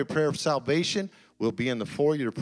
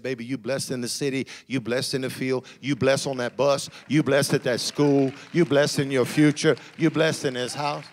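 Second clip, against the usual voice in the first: each line louder, ending near a shout; building blessing; 6 dB louder than usual. Pretend. Parent blessing a child at breakfast, swelling chant.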